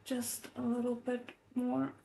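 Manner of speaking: softly, through effort; quiet strain. Acted. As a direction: murmur it while straining. Straining inner thought.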